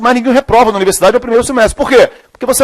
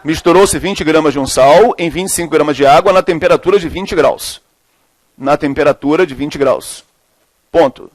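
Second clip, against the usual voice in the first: lower-pitched, measured repeat for note-takers; classroom dictation; 7 semitones lower, slower than usual. Real, not acted. Teacher repeating the question for students writing, low measured dictation.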